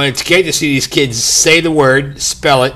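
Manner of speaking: booming announcer delivery. Real, not acted. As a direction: say it like a spelling bee announcer. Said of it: "You sound like the announcer".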